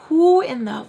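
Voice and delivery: who do they think they are, shocked; outraged disbelief. Retold or imitated. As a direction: voice jumps up in outrage. Outraged retold reaction.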